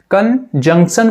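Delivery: कंजंक्शन with a nasal N in "jun"; N sounded. Shown as a demonstration. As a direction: voice the second N in कंजंक्शन. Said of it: "यहाँ पर जो एन sound आ रहा है". (कंजंक्शन में एन की आवाज़)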